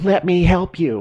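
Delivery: high, loud scream with every word drawn out. Retelling pleading with unwilling clients: imitating own screaming. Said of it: "I'm screaming at them".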